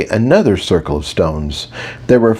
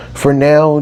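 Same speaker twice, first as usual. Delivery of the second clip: For now, raised higher to carry over the group; teacher calling out; 6 semitones higher than usual. Acted. Mage teacher getting the centaurs' attention, higher and called out. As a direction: call For now out to the class.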